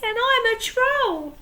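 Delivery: very small voice. Acted. Scared troll answering the pirates in a tiny voice. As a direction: shrink your voice down to nothing. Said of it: "said the troll in a very small voice".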